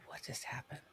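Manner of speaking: hushed, unvoiced aside; real puzzled whisper; baffled whisper. Real, not acted. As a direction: whisper it to yourself in confusion. Baffled by recording software glitch.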